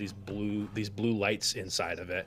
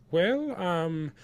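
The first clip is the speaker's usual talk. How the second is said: higher, slow, hesitant character voice; Sen; 8 semitones higher, 3 dB louder, slower than usual. Acted. Sen explains the visitors to Farguild, high and hesitant. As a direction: hesitate politely in a raised pitch. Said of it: "and says".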